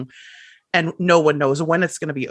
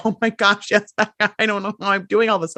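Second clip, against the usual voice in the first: overwhelmed client; 5 semitones higher, faster than usual. Retold or imitated. Client overwhelmed, coach quoting them.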